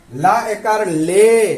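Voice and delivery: slow, every syllable apart; slow sounding out. Shown as a demonstration. Teacher sounding out the syllable slowly. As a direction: spell it out slowly like a drill. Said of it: "अब किसे क्या पढ़ेंगे".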